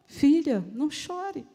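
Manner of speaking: calm a distraught daughter; tender consolation; compassionate. Acted. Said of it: "foi um não chore de compaixão".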